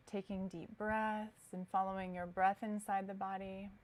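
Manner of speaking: calm, unhurried yoga guidance with long pauses; guided meditation. Acted. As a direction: ease them into stillness, leaving space between phrases. Guides students into relaxation.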